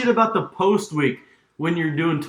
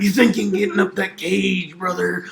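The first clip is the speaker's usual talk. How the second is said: wrestling promo; 2 semitones higher than usual. Pretend.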